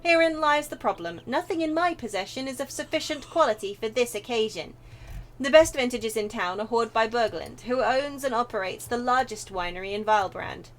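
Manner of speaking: put-on eloquent, measured old-world gentleman; formal, theatrical storytelling; retired mercenary wine lover. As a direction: voice a courtly, wine-loving game character. Reads a game character's dialogue.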